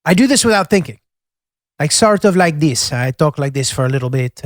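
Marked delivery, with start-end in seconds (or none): 1.8-4.5 mild Italian accent with a tinge of British; slight Italian lilt, British-tinged accent. Shown as a demonstration. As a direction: talk like an Italian who learned English in the UK. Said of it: "a mild Italian accent with a tinge of a British accent".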